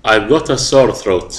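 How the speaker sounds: slow, clear example sentence; teacher dictating; slow model reading. Shown as a demonstration. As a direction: read slowly for the students. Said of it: "احفظها".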